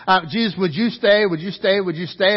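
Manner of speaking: mildly acted, repeated plea; begging. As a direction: press the same request over and over. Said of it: "He's begging Jesus".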